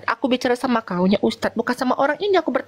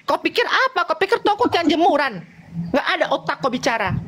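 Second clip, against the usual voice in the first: angry retort; 5 semitones higher than usual. Real, not acted. Heated religious argument, scolding.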